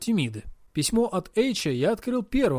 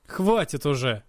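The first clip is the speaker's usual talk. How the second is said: brushing off; 2 semitones lower than usual. Acted. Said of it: "отмахнулся я".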